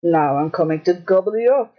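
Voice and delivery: low, roaring troll. Acted. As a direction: growl the threat. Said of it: "roared the troll".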